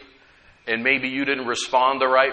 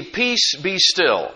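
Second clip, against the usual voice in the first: commanding the storm; slower than usual. Acted. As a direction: call out over the storm, but only lightly acted. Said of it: "rebuked the wind and said".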